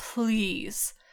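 begging manner. Retelling how Dean pleads to Chuck: imitating Dean pleading. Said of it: "he just goes to that".

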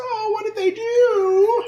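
high, slow, whiny voice. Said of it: "He has that voice".

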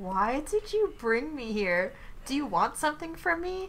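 soft, puzzled, lost-sounding confused voice. Shadow asks the man why he brought him here; confused. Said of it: "asked in a confused manner".

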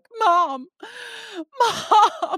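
very high, loud, tearful crying wail. Retelling her son waking her early, imitating Moses crying. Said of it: "like crying".

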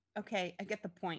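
ordinary delivery

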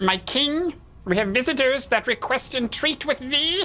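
tiny creature shouting. Narrator voices the small creature hovering before the great tree, addressing its king: Remy, tiny winged creature. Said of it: "And it's a little tiny, looks to be a male, little tiny male humanoid with wings. And it comes flying out and is hovering like right in front of your face".

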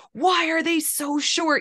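put-on, too loud, high blurting. Retelling an embarrassing question he asks about short people: imitating a loud question. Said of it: "and he says it so loud".

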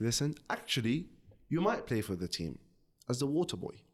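ordinary talk, nothing marked

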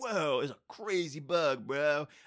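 laid-back, very dragged-out, lazy surfer drawl. Describing Keanu's moment in the film; Michelangelo Ninja Turtles impression. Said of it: "a Michelangelo from Ninja Turtles impression".

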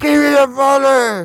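very high, muffled, drawn-out voice. Acting out a robber speaking from under a bucket: muffled voice under a bucket. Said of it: "all muffled".

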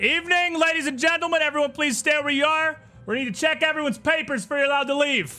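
very high, loud, yelled shouting. Narrating a scene, voicing the lead guard bursting through the door, shouting. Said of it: "immediately shouting".

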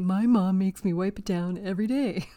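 put-on complaining kid's voice. A mother acts out what her children would answer, impersonating her children. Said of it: "That was my best impersonation".

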